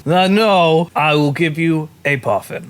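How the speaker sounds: firm but obliging vendor, loosely Scottish; attempted Scottish accent. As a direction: refuse lightly in mock Scottish. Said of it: "I was trying to do Scottish".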